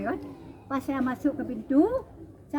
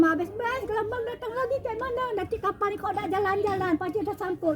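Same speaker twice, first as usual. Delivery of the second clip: panicked cry; 8 semitones higher than usual. Retold or imitated. Panic as another wave comes.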